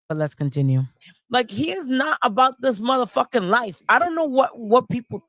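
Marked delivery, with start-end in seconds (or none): 1.3-5.2 high mocking voice impression; mock the streamer's voice; Rican impression. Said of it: "his best Rican and Ranger impersonation".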